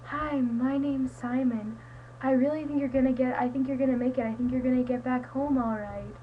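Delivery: mild take on a reassuring character; imitating Simon. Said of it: "like, imitating Simon".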